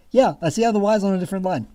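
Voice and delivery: fast, mocking echo of his words. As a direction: rattle it back, fed up. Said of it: "I'm like".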